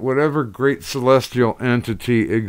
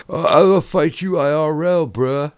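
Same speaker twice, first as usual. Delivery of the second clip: mock tough guy; 5 semitones higher than usual. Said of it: "yelling or saying".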